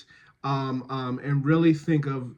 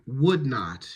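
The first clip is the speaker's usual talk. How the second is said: slow "would not", "would" emphasised; stress on WOULD. Shown as a demonstration. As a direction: lean on "would", let "not" fall. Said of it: "stress is always on the non-negative".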